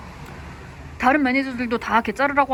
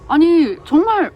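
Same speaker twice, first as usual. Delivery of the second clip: much higher, louder, slow cry of disbelief; fed-up vlogger venting about a coworker, exasperated; exasperated outburst; 7 semitones higher, 9 dB louder, much slower than usual. Real, not acted. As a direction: let the frustration burst out, drawn out.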